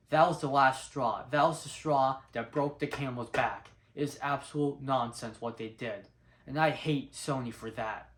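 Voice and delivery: loud, heated rant at the studio; fed-up fan losing his temper; mad rant. Real, not acted. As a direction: vent real frustration, punching each line. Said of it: "I'm just getting a bit mad".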